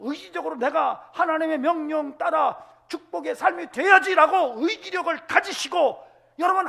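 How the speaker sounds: loud, high fiery sermon cry; preaching at full force. Acted. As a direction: thunder God's promise at the congregation.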